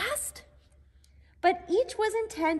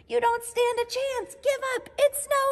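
taunting; 8 semitones higher than usual. A narrator's reading. Bruce taunting in the chase.

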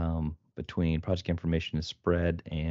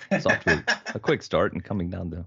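fast excited race caller voice; horse race announcer. Acted. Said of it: "the horse race announcer voice".

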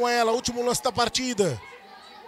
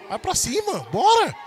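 excited urging; 4 semitones higher than usual. Real, not acted. Fan urging team forward.

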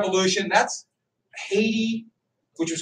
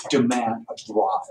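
mock furious Adams; 6 semitones lower, slower than usual. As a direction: play Adams offended at the bribe, pitched way up. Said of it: "if I talked like that".

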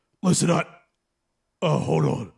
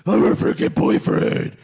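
unintelligible Batman growl; 3 semitones lower than usual. Acted. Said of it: "can't understand you when you talk like that".

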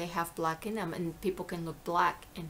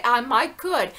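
louder Southern imitation; Southern accent; 4 semitones higher, 9 dB louder than usual. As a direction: quote a Southerner with gusto. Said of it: "they say".

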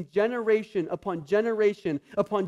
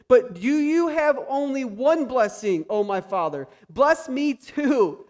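pleading; 5 semitones higher, 4 dB louder, slower than usual. Retold or imitated. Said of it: "Esau pleaded".

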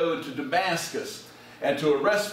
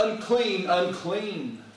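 lepers calling out; 5 semitones higher, slower than usual. Retold or imitated. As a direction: call out a warning like a leper on the road. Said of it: "they would have to yell out".

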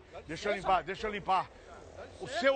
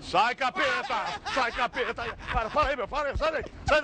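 mock exorcism; slower than usual. Fake exorcist casts out devil.

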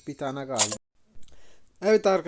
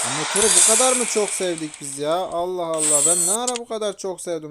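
louder, amazed at himself; surprised; 3 semitones higher, 5 dB louder than usual. Real, not acted. Streamer amazed at his own love of the motorbike. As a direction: shake your head in loud disbelief.

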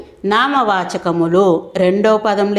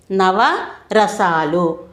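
నవరసాలు repeated even more slowly; నవరసాలు dragged out very slowly; much slower than usual. Shown as a demonstration. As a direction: say నవరసాలు again, stretched out for note-taking. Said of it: "అవి కొన్ని ఉదాహరణలు చూద్దామండి".

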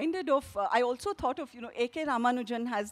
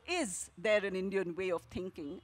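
"is" hit hard at the start of the question; stress on IS; 3 semitones lower than usual. Shown as a demonstration. Author demonstrating the actors' exercise, stress on "is". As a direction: lean on the word "is", the rest light. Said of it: "a commonplace line with emphasis on different words".

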